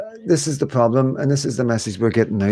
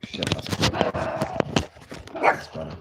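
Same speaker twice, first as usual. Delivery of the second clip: muttered aside; 7 semitones lower, 8 dB quieter than usual. Real, not acted. Adjusting camera, muttering aside.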